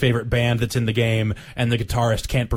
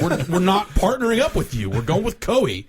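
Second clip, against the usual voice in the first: higher put-on Tecmo voice; mock company voice; 8 semitones higher than usual. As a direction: play the smug company rep. Voicing Tecmo in skit.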